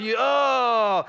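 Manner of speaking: loud dismayed oh; disappointed groan. Shown as a demonstration. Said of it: "When you're disappointed".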